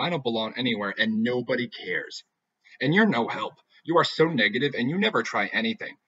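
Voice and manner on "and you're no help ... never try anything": louder, accusing and exasperated; accusing outburst. Acted. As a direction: lash out at your friend. Heather turns on her friend.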